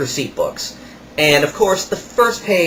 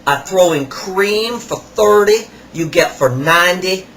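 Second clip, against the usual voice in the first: higher, slow put-on salesman voice; imitating the salesman; 5 semitones higher, slower than usual. Kiosk salesman rubbing salt on a customer's hands, imitated higher and slower. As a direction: ham up the pushy kiosk seller. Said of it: "He goes".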